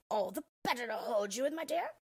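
a hint of a sly wolf playing granny; the wolf purring out his answer; lightly voiced wolf-granny. The disguised wolf answers the girl, lightly voiced and sly.

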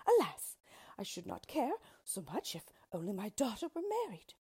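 sharp high cry on alas, then mild sorrow; lamenting queen. Acted. Queen fretting over her daughter, mild lament. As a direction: sigh out a mother's worry.

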